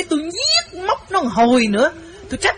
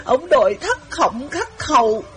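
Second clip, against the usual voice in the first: tearful pleading, higher voice; imitating sobbing; 3 semitones higher than usual. Wife imitating the weeping girl to the men, tearful. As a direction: mimic a girl crying her heart out. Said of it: "nó khóc tấm tức tấm tưởi".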